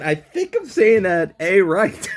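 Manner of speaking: quoting herself. Retold or imitated. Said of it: "I was sitting there saying".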